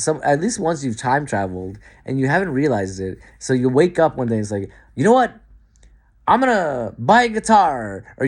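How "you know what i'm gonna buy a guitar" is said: high eager announcement; pitched-up burst of new enthusiasm; sudden resolve. Pretend. Talking to yourself, high and eager. Imagined inner voice deciding.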